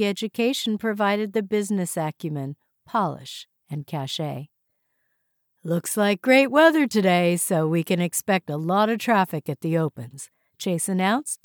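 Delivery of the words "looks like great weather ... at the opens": upbeat boss announcing with a broad smile; smiling broadly. Acted. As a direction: address the team through a wide smile. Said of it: "smiling broadly".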